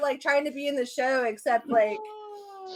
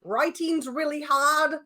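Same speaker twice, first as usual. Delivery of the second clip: badly faked Irish, sliding toward German; bad Irish accent; 3 semitones higher than usual. Singing the rewritten theme on request, bad Irish accent. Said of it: "it went a little German".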